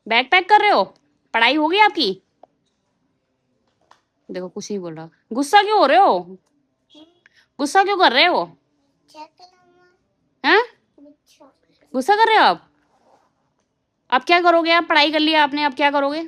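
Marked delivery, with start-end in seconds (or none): 0.1-2.1 mother teasing her son about packing his bag, high sing-song. Real, not acted. 5.3-16.2 high, loud sing-song coaxing; mother coaxes her sulking son, high and teasing. Real, not acted.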